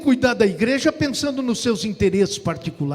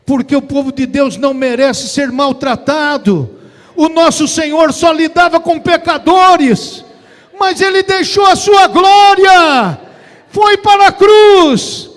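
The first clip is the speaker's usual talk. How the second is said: full-force preaching; 7 semitones higher, 12 dB louder than usual. Real, not acted. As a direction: preach it louder and higher to a peak. Pregação em crescendo. (pregação inflamada, crescendo até o grito)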